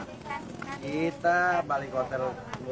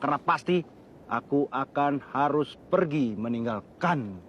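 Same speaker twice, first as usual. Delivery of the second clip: hammy stage actor. Shown as a demonstration. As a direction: stretch Wahai out like a stage actor. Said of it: "Dengar ya". (deklamasi puisi yang dramatis)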